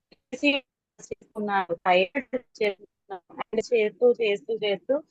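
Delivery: choppy, fading call audio; bad connection. Real, not acted. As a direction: voice dropping out on a weak signal. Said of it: "proper signal లేనట్టు ఉంది, cut అయ్యారు".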